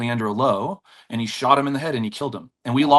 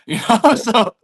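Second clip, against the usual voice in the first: laughing; 10 semitones higher, 6 dB louder, slower than usual. Real, not acted. Laughing at the story.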